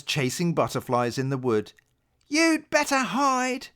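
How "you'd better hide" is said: mock roar. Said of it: "he roared".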